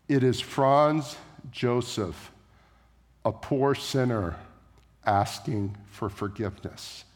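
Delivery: slow, soft, fading to near hush; a kneeling sinner asking mercy; humble plea. Retold or imitated. Herald kneeling at the abbey door, humbly begging forgiveness, soft and slow.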